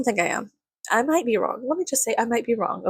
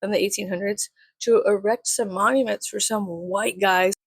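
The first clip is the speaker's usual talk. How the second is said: snarky mock quote; 3 semitones higher than usual. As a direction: needle him with exaggerated sarcasm. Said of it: "I was just being, like, a little bitch".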